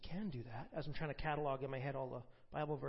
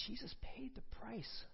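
hushed reverence; 7 semitones higher, 3 dB quieter, slower than usual. Acted. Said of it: "preaching emphasis".

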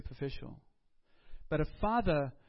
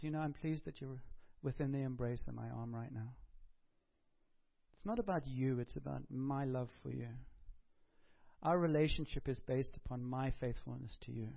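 soft, reassuring father's voice, softer; loving father; 3 semitones lower, 4 dB quieter than usual. Retold or imitated. The Father reassuring a listener in his embrace, soft and tender. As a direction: reassure them gently and close.

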